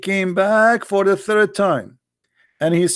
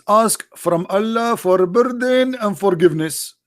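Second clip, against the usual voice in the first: mock pleading voice; 4 semitones higher than usual. Mocking voice of Muhammad pleading.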